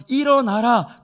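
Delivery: loud, high command to rise; commanding call. Acted. Jesus commanding the dead son to rise, loud and high. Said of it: "뭐라고 얘기합니까".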